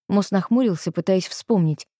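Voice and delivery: usual speaking voice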